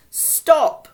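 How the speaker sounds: three high, loud, separate shouts; angry shouts. Acted. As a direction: shout each word in time with a blow. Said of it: "in time with her words".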